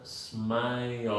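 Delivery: "smile" said as smai-ol; two-syllable smile. Shown as a demonstration. Teacher showing the extra syllable, "smile" as smai-ol. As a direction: stretch "smile" with a schwa before the L. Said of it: "tiene dos sílabas también".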